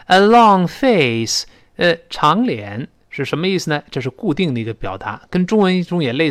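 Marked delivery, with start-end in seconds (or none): 0.1-1.5 "A long face" very slow and clear; teacher model read; slow model phrase. Shown as a demonstration. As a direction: read it slowly for the class. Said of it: "long这么一个声音".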